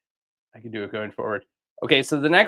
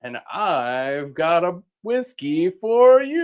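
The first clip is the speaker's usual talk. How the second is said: Eagle Man voice. Acted. Eagle Man announcer again.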